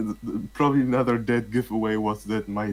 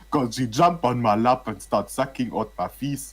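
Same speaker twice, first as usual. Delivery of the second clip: put-on Ugandan accent; 2 semitones higher than usual. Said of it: "more like a fucking Ugandan accent".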